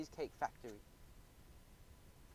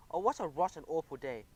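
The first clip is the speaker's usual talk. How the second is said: mock sobbing; 4 dB louder than usual. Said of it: "I sobbed".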